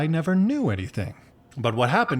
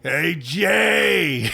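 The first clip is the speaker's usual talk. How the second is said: cheery greeting shout; 5 semitones higher, 3 dB louder than usual. Acted. Greeting friend.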